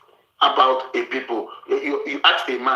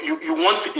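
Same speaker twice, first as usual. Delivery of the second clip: mock high voice. Mocking what she wants.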